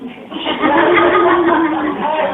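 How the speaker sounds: big high burst of laughter; loud high laugh. Real, not acted. Preacher laughing at the official's turnaround, loud high laugh.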